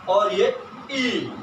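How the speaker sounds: ई drawn out slowly, held long as a dirgha vowel. Shown as a demonstration. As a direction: stretch the ई, let it last. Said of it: "इसमें उससे ज्यादा समय लगता है". (लंबा ई, धीरे खींचकर)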